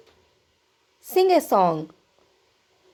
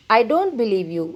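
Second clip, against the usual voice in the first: slow teaching repeat; much slower than usual. Shown as a demonstration. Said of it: "నేను నిన్ను నమ్మను అనాలంటే ఇంగ్లీష్లో".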